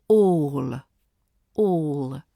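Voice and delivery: "All" with a rounded, unflattened vowel. Shown as a demonstration. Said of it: "keep all rounded, and avoid flattening".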